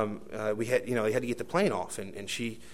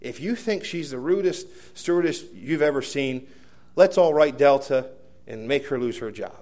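mild imitated yell, building louder; retold yell; 2 semitones higher, 4 dB louder than usual. Passenger rallying the whole plane against stewardess, mild retold yell. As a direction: call it out boldly, swelling at the end. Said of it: "he yells to the plane".

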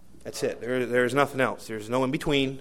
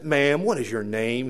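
slow, lightly imitated Southern demand; southern accent; 3 dB louder than usual. Passenger demanding the stewardess's name again, bold southern accent. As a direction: draw it out, bold and a little Southern. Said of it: "it's got that southern accent".

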